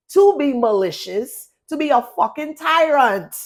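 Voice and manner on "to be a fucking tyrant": ordinary talk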